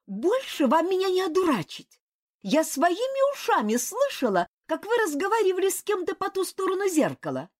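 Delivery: высоким голосом, возмущённо; юная княгиня обличает; возмущённая княгиня. A narrator's reading. Касима гневно обличает. (княгиня возмущённо бросает упрёк)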